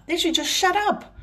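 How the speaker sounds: a ranting vlogger telling critics to shut up, angrily; real anger. Real, not acted. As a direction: snap out shut up in real irritation. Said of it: "I'm angry".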